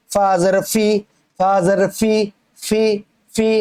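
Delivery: "ফি" with upper teeth touching the lip. Shown as a demonstration. Teacher shows where fa is made, teeth on lip. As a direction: make the "ফ" of "ফা জের ফি" on the inner lip. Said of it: "উপরে দুই দাঁত".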